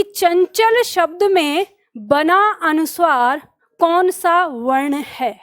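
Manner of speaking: slow exam question. Shown as a demonstration. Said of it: "प्रश्न किया जाता है".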